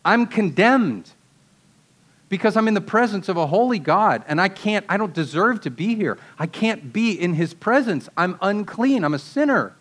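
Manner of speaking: acted, insistent self-condemnation; declaring condemnation. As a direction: plead unworthiness as an overwhelmed sinner.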